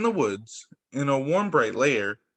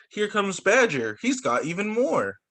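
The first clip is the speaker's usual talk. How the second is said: hare voice; 5 semitones higher than usual. Acted.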